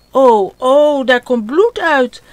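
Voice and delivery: put-on a child starting to cry at his bleeding hand. Ot seeing blood on his hand, tearful wail. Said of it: "En Ot begint te huilen".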